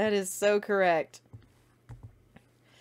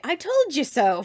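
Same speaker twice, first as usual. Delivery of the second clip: smug gloat; 7 semitones higher, 7 dB louder than usual. Retold or imitated. Quoting the smug meme face.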